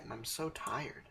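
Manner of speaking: soft, slow, drained; sleepy and tired. Acted. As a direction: let it sag with fatigue. Collapsed after work, yawning.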